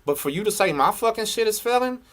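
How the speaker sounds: high, forceful indignation; angry rebuttal. Real, not acted. Answering a rival's claim his channel fails, indignant.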